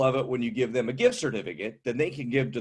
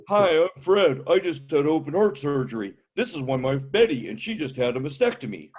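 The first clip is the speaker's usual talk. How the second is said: put-on loud, chipper old-timer greeting; old man introducing himself; 3 dB louder than usual. Old man greeting a stranger at a birthday party, loud and chipper. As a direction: proudly announce your ailment. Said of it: "introduce themselves by their ailments".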